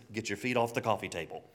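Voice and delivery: loud mock scolding mother; a mother scolding her star son, mock stern and loud; scolding mom. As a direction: play the mom putting her famous son in his place, loudly. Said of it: "his mom says".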